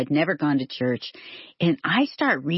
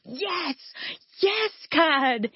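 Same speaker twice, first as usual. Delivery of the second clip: much higher, cheering; jubilant yes; 11 semitones higher, much slower than usual. Retold or imitated. Reading the verse, she cheers to God, jubilant. Arms up celebrating.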